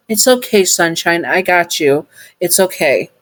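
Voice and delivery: comforting. Acted. Robot comforting crying listener.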